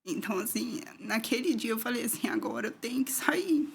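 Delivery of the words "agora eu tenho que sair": whispered resolve. Retold or imitated. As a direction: whisper it like a secret vow. Retells her decision to leave. (sussurro decidido, quase sem voz)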